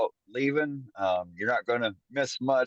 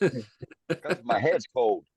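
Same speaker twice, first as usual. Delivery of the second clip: laughing; much slower than usual. Real, not acted. Joking answer about his do-rag.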